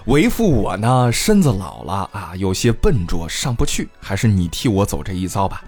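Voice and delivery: a hint of a tired old dad asking a favour; father asking son to climb. Father voices old age.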